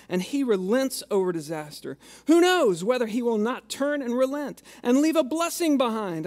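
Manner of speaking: measured scripture reading with weight on key words; preacher reading Joel aloud from the pulpit. Acted.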